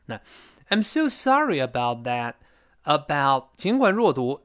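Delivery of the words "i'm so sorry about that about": slow "sorry about" linked by a very light "y"; light linking glide. Shown as a demonstration. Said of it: "这个耶要特别轻".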